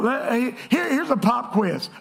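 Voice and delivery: usual speaking voice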